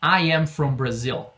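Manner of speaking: slow, clear English model answer; slow model phrase. Shown as a demonstration. Teacher drills the answer slowly for students. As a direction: say it slowly for repeating.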